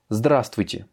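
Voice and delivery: "Здравствуйте" with ЗДРА stressed, the rest light; stress on first A. Shown as a demonstration. Teacher giving a Russian example, stress on ЗДРА in "Здравствуйте". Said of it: "j'accentue sur здравствуйте, sur le A".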